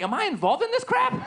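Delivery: panicked high-pitched self-question; high incredulous squeak. Retold or imitated. Comic watching the news, panicked high squeak. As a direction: squeak it out in alarm. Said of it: "I'm like".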